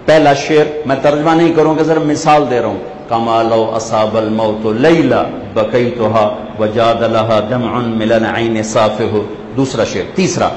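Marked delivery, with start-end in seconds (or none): 3.1-9.2 measured, metrical poetry recital; Arabic verse recitation. Acted. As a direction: recite the classical verse in even cadence. (عربی شعر خوانی)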